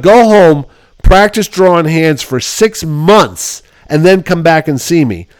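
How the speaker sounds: dismissive dad. Retold or imitated. The dad telling him to go practise, slow and dismissive. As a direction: send the kid home, slowly.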